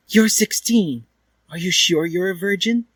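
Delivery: high, doubting question; doubtful. A narrator's reading. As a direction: sound unconvinced. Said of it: "she asked him doubtedly".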